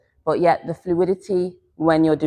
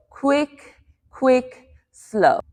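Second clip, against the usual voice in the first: quick-quick-slow count; 5 semitones higher, much slower than usual. Shown as a demonstration. Teacher shows how the weight shift goes, counting in time. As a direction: separate beats, falling on the last. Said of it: "So we're gonna go".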